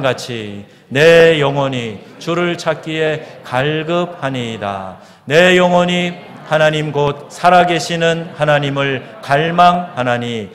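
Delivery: loud, slow congregational Bible reading; scripture reading. Acted. Pastor leading the congregation in a psalm, slow loud recitation. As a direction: draw out each phrase solemnly.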